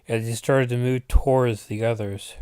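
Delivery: usual speaking voice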